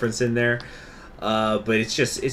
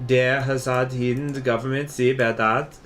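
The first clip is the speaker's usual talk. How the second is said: put-on German accent. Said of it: "we speak Spanish in the German accent".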